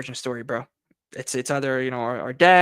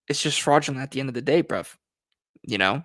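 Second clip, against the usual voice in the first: touch of English accent, quick; English-accented slang, tossed off fast. Real, not acted. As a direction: let a little English accent slip in. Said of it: "Now, now I have my English accent coming on".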